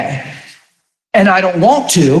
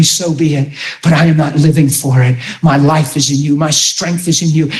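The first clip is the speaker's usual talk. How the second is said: a hint of earnest prayer voice; spoken prayer; 2 semitones lower than usual. Preacher modelling personal prayer, lightly devout. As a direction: pray it sincerely to the Father.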